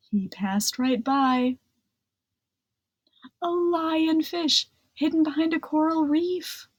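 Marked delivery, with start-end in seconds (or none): 3.4-6.7 higher, hushed storyteller suspense. A narrator's reading. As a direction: build suspense on hidden danger. Suspense over hidden fish.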